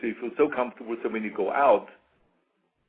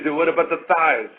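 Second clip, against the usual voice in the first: loud mock heckle from the side; raised-voice imitation of a heckler; Frank Zane; 3 semitones higher, 8 dB louder than usual. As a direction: call it out, teasing a rival poser. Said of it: "And Frank would say".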